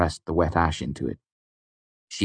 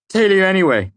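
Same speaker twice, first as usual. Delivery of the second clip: much higher and louder, nerves frayed; shaken outburst; 13 semitones higher, 7 dB louder than usual. A narrator's reading. Simon too rattled to stab the doll, high and loud. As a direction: blurt it with shaky nerves.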